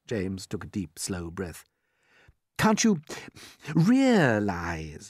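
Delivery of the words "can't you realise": deliberate, stretched-out words; strained patience. A narrator's reading. James explains to earthworm after a slow breath, patient. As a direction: draw out the last word patiently. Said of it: "he said patiently".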